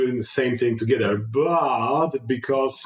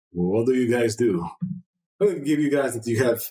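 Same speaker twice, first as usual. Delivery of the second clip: ordinary talk, nothing marked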